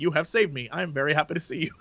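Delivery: stiff, toneless formal English; deadpan subtitle reading. Retold or imitated. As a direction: read it out like a plain subtitle. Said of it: "he says one thing that's pure English".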